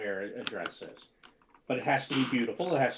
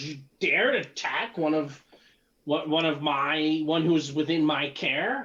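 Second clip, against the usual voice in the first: displeased, angry, accusing tone; 3 semitones higher, 5 dB louder than usual. Voicing an unhappy abbot confronting the party: unhappy character, angry accusation. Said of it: "he actually at this point looks unhappy".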